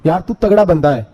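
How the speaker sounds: mild scolding that climbs in pitch; imitated reproach, pitch building steadily; retold angry reproach. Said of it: "ایک صحابی غصے سے بولے".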